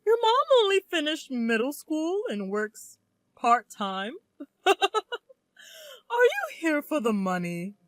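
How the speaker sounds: mocking, condescending snob voice; sneering in-law. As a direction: look down on her with contempt.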